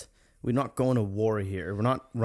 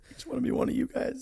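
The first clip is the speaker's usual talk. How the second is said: very high, quick little voice; hammed-up high-pitched wannabe; mock pleading; 3 dB quieter, faster than usual. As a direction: plead to join in, squeaky and small. Joking as the wannabe accent imitator.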